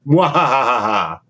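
slow mad scientist cackle; evil laugh. Pretend. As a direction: gloat with a villain's laugh. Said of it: "That's, that's my evil laugh".

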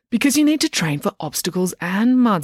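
put-on bossy coach girl. Loretta explains.

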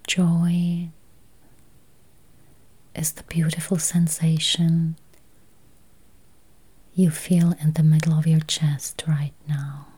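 slow, spacious meditation voice with long pauses; guided meditation. Acted. Meditation guide easing listeners toward healthy eyes, slow guided-meditation voice. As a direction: guide listeners gently into calm, unhurried.

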